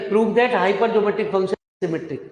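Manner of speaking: drawn-out classroom dictation; slow dictation. Real, not acted. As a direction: read it out slowly for students copying it down. Dictating the problem while writing.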